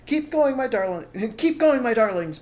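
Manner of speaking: panting. Acted. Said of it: "panted Mister Fox".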